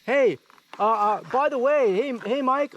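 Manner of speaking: high-pitched imitation of a know-it-all rider; Mal Dalton. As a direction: pipe up high as the unasked adviser. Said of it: "Mal Dalton experience".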